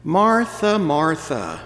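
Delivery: Jesus gently correcting Martha; Jesus calling out. Acted. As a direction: call her name twice, firm then settling. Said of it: "He says".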